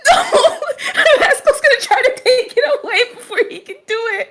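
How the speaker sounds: high, loud, real giggling through the words; laughing. Real, not acted. Player predicts Pascal's move, high and laughing hard. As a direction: talk while cracking up.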